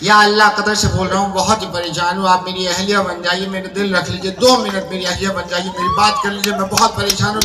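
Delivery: high put-on voice, begging and fretful; pleading Qatari caller. Caller begging the woman to play his wife, high pleading voice. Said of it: "महजबी बन के phone किया".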